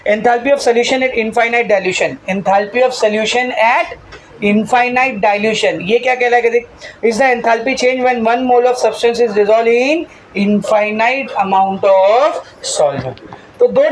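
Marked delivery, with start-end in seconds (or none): 0.1-5.8 slow, drawn-out dictation of a definition. Shown as a demonstration. Teacher dictating a definition to the class, slowly. 7.0-13.2 slow, drawn-out dictation of a definition. Shown as a demonstration. Teacher dictating a definition to the class, slowly.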